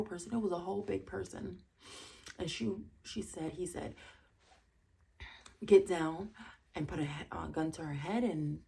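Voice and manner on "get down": sudden loud command; mock robber's order. Retold robber ordering the victim.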